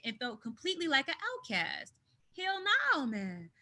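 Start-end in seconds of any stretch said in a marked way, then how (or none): 2.4-3.5 emphatic. Real, not acted. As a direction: throw out a sharp high refusal. Emphatic refusal, big jump.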